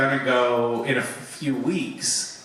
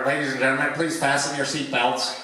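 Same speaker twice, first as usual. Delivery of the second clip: routine cabin announcement, lightly imitated; pilot on intercom; 2 semitones higher than usual. Pilot tells passengers to fasten seatbelts, intercom announcement. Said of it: "the pilot gets on the, the intercom".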